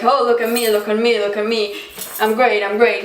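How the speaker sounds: acted-out boasting, repeated eagerly; playful imitation of a show-off. Shown as a demonstration. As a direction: brag for attention. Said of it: "he wasn't that like".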